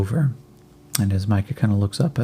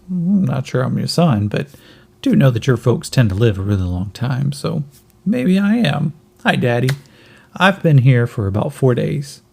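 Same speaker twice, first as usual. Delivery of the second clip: put-on kid voice; 3 semitones higher than usual. Yin answers Micah's question.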